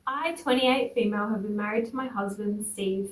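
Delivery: composed first-person storytelling; story narration. A narrator's reading. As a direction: read the post out evenly. Reads a posted story aloud.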